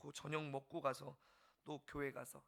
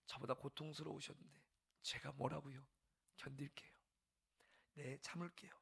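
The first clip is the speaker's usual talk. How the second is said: humble reply. Retold or imitated. Pastor's tearful answer to Lord.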